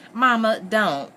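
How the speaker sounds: high, slow, drawn-out plea; teasing plea. A narrator's reading. Bess playfully begging her mother to stop, teasing plea. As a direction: plead playfully, stretching the words. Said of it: "Bess pleaded teasingly".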